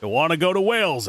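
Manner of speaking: normal talking voice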